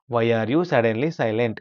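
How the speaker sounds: slow model reading. Shown as a demonstration. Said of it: "teacher models English sentence slowly".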